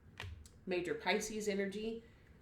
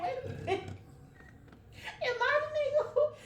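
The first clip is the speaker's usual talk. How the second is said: retold disbelief; faster than usual. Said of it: "I'm like".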